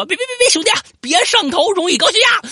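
very high, loud pleading cry; pleading shrilly with the snake to calm down; frantic pleading. Retold or imitated. Waving off the attacking snake.

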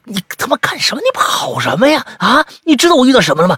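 高而响的吼叫质问; 又吓又气地吼出来; 惊怒的质问. Acted. 追上小白质问. (师兄追上小白又惊又怒地吼着质问)

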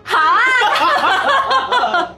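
put-on Taiwanese accent. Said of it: "那咱俩用这个台湾腔说一下东北话".

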